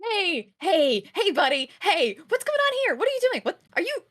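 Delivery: put-on high, loud, anxious questions to the kid; a frightened guardian checking on the child; worried calling. Worried about child opening arm.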